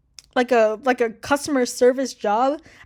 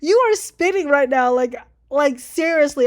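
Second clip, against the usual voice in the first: put-on excited girl; 3 semitones higher, 6 dB louder, slower than usual. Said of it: "And I was like".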